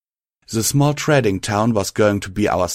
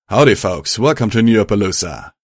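town guard greeting; 5 dB louder than usual. Acted. Guard greets travellers at gate.

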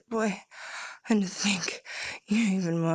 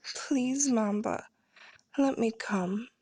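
lightly voiced pleading listener, higher; mock begging; 4 semitones higher, slower than usual. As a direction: imitate his desperate plea. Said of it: "I can hear you already".

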